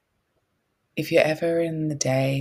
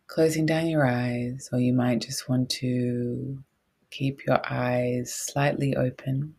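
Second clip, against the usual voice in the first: guided meditation. Real, not acted.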